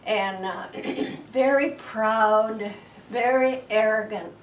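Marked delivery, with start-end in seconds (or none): 1.3-4.3 very proud said slowly and louder; emphatic. Acted. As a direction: hammer the words proud and arrogant. Emphasizing the giant's pride.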